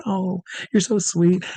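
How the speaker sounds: high, slow imitation of a grateful woman; touched, sweet. Star touched by his compliment.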